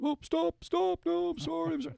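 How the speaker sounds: high, frantic mock plea from a scared man; panicked pleading. Retold dad begging the cop to stop, high and panicked. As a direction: yelp it out like he's about to be hit. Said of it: "The guy starts crying".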